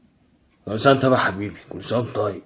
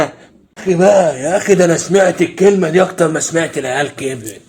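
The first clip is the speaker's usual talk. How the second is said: exasperated complaint; 4 semitones higher, 5 dB louder than usual. Acted. Acted exasperation at the repeated play.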